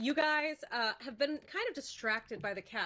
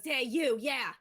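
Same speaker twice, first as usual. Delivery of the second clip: pushy halfling; 2 semitones higher than usual. Acted. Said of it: "the halfling takes a step towards you and goes".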